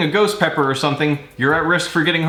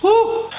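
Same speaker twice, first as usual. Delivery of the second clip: high whoop. Real, not acted. Exhaling after pepper burn.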